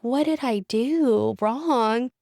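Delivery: asking herself what she did wrong; distressed self-questioning. Retold or imitated. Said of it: "this shame spiral of".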